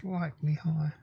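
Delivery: tight, held-breath voice; holding breath. Real, not acted. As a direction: talk while holding your breath. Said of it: "I'm holding my breath".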